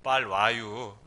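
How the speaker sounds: low, drawn-out Chungcheong accent; Chungcheong dialect. Shown as a demonstration. Preacher turns "come quickly" into low Chungcheong accent. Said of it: "충청도".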